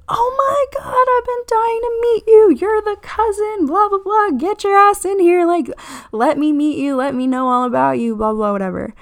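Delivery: over-the-top excited welcome, loud and high; gushing excitement. Retold or imitated. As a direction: squeal like meeting a long-lost best friend. Fish gushes meeting the cousin.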